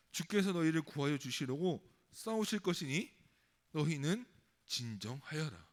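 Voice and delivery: firm, measured proclamation; solemn Bible recitation; scripture reading. Acted. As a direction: read out God's command with weight, slowing at the close. Reads God's words from scripture.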